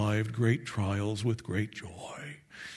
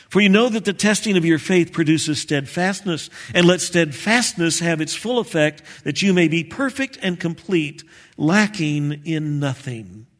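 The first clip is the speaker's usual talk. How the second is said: scripture reading; 2 semitones higher than usual. Acted. Reading the scripture verse aloud.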